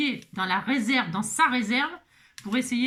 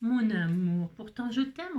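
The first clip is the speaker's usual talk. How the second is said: tender pet talk; slower than usual. Real, not acted. Sweet talk to the cat.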